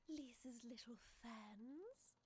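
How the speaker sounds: slow, hushed laughing sneer; mocking chuckle. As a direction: chuckle over the fans' letters. Villain mocks the letter.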